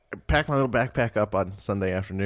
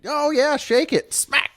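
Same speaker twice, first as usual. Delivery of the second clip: higher, louder mock cheer; imitating dad; 5 dB louder, slower than usual. Dad cheering while smacking his butt, hammed-up whoop. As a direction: whoop it up like the dad egging him on. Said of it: "He just fucking".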